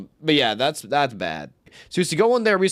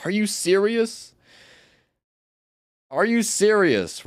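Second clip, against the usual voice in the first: mock disbelief; 8 semitones higher, slower than usual. Retelling reaction to being sprayed.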